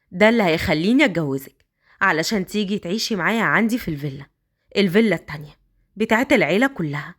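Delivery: put-on a man coaxing the girl upstairs.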